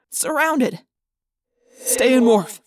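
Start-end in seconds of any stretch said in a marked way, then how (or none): 1.8-2.6 louder, curt command; terse, forceful leader's bark; Jake snapping. A narrator's reading. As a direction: snap an order. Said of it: "Jake snapped".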